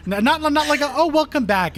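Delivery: mock sweet greeting.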